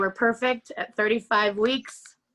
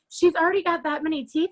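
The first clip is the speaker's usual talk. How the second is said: put-on little old lady; 6 semitones higher, 4 dB louder than usual. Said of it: "the cutest little old lady".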